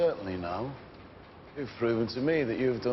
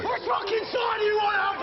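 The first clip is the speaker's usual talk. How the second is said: much higher, loud enraged demand; furious shout; 4 dB louder than usual. Real, not acted. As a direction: scream the question at him.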